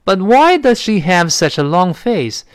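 teacher model read; slow model sentence. Shown as a demonstration. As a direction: model it slowly with "does" light. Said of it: "那个does往前提了".

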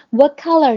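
What with its t silent, linked into color; unreleased t. Shown as a demonstration. Teacher modelling the lost plosion in what color. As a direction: drop the t of What and go straight to color. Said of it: "那个what这特我们就不读了啊".

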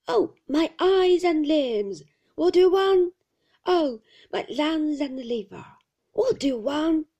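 put-on ranting old shopkeeper, high and loud; fierce whine. A narrator's reading. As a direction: whine it fiercely in a repeated singsong. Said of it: "monotonous whine".

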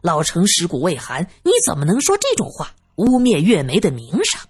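flustered, indignant stammer at the start; angry. Acted. Man defending a widow's name, angry and flustered. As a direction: scold indignantly, tripping over the first word. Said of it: "宁志国气地说道".

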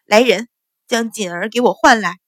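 mild call to the servants across the room. Acted. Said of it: "起身唤道".

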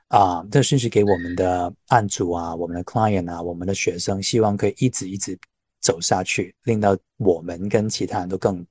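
Hong Kong-accented Mandarin; cantonese accent in mandarin. Real, not acted. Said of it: "李老师的那个梦想之一就是用港普".

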